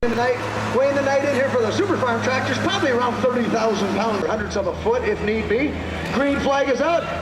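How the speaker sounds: big-voiced arena announcer; tractor pull announcer. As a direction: call the start over the PA.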